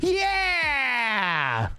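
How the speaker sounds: high drawn-out cheer of triumph; excited yell. Real, not acted. GM cheering his team's streak, long high excited yell. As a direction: let the win out in one long yell.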